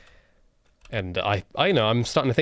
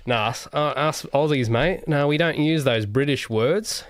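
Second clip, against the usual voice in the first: mock Australian accent; hammed-up Aussie; 4 semitones higher than usual. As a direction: put on an Aussie bloke's twang. Plays indignant Aussie rejecting British words.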